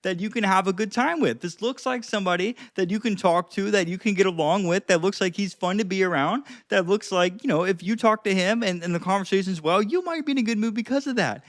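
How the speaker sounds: talking through a smile; smiling voice. Shown as a demonstration. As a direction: keep the grin while speaking. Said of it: "I'm gonna try to smile when I talk here".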